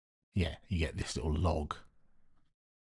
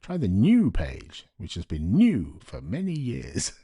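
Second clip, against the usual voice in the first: slow, louder, ironic sales pitch; mock announcement; 7 dB louder, slower than usual. Reading the old store's banner aloud as a mock advert. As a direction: read the banner like a grand advert, slowly. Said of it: "it says".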